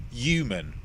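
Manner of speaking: HUMAN with the H left off, starting on a Y sound; dropped H. Shown as a demonstration. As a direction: say Human as "yuman", Cockney-style. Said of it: "like a cockney".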